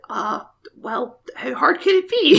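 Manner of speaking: Bond quote. Retold or imitated. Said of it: "And he's like".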